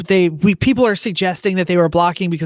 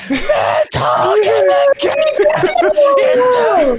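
screaming into the radio; slower than usual. Retold or imitated. Calling Mental over the radio during the race, shouting. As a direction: yell the order across the pit wall. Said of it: "I'm screaming".

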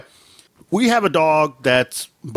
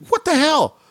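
mock exasperation; 13 semitones higher, slower than usual. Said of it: "So I was like".

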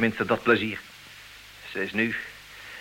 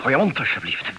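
irritated; 4 semitones higher, 6 dB louder than usual. Real, not acted. Snaps at Philip.

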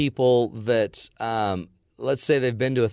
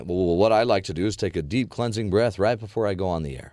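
anchor voice; 3 semitones lower than usual. Retold or imitated. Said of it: "You said that in a nice anchor voice".

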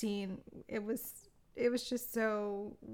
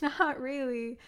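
put-on a light touch of Jacques's French accent; imitated French accent; 3 semitones higher, 4 dB louder, slower than usual. Man gently correcting her French, imitated French accent. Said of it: "why do I wanna do his accent".

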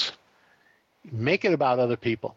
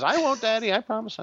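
put-on high child voice, earnest promise; imitating a little girl promising; little daughter promising; 11 semitones higher than usual. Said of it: "She says".

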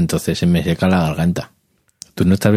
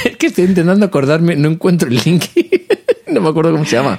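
talking through high giggles; giggly, much higher voice; laughing; 9 semitones higher, faster than usual. Real, not acted. Laughing while searching for link.

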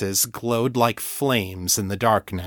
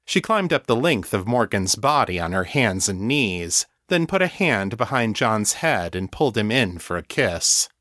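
ordinary delivery, nothing marked

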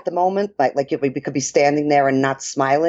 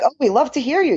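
high-pitched mock fan compliment; imitating an enthusiastic fan; imitated gushing praise; 11 semitones higher than usual. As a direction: gush it like an admiring listener, lightly. Voices listeners' gushing compliments.

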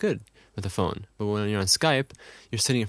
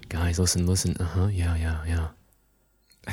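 distracted fake listening; 4 semitones lower, slower than usual. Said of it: "where you're just going".

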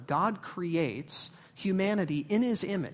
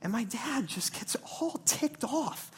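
usual speaking voice

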